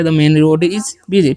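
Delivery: very slow, word by word; spelled-out dictation pace; slow model reading. Shown as a demonstration. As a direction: say each word slowly for the class to copy. Teacher repeats model sentence.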